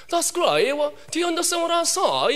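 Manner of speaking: imitated British teacher checking understanding; lightly hammed-up British English; British English speaker. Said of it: "영국에서 왔으니까 영국 사람은".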